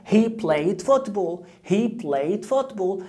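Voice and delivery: very slow, each word spaced out; slow model sentence. Shown as a demonstration. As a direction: spell it out slowly for the learner. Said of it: "teacher models sentence slowly". (جملة بطيئة واضحة للتلميذ)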